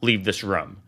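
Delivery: slow, low, deliberate warning, a touch of mock intensity; intense stern reminder. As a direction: lay down the rule slowly and heavily, half imitating her. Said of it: "she said it with that level of intensity".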